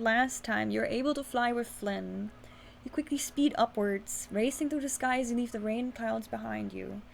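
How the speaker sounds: steady, even storytelling read; story narration. A narrator's reading. Reads interactive story aloud.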